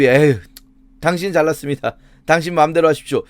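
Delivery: mock sighing, grudging surrender; insincere resignation. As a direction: give up sarcastically, as if browbeaten into it. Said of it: "하나님이 막 윽박지르니까 욥이". (비꼬듯 체념하는 말투)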